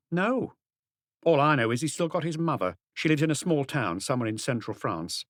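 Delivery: a hint of a sharp, defiant niece; hard woman. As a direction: tough niece snapping at the inspector. Angèle about Marcel's mother.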